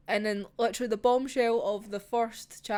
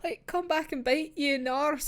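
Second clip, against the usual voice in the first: higher, exasperated oh no; a hint of a tearful protest; mock dismay; 8 semitones higher than usual. Real, not acted. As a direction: fret at the lie with a whine. Reacting to teacher's lie.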